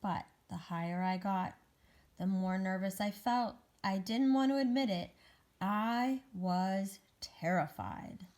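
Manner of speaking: deliberate, suspenseful storybook reading; picture-book narration. Acted. Egg climbs the wall terrified, suspenseful storybook narration. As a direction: build the climb with weighted words.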